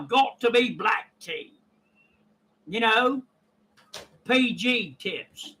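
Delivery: put-on English tea-time accent; chatty imitation of an English tea drinker's accent; mock British accent. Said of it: "dubbed the honorary English".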